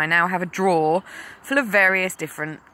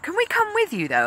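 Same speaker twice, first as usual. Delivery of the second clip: put-on high little girl's voice; high childlike question; imitating daughter; 14 semitones higher, faster than usual. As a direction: ask it sweetly like a small girl. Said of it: "my daughter said".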